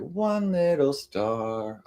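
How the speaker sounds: slow, high, stretched-out Big Bird; sing-song it like Big Bird. Shown as a demonstration. Streamer showing chat her Big Bird voice. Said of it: "That's my Big Bird voice".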